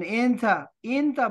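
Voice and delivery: "एन था" opening on an i/e vowel; slang pronunciation. Shown as a demonstration. Teacher showing how Arabs say it, slang pronunciation. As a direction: say "एन था" the colloquial way, i/e for a. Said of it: "बोलते हैं".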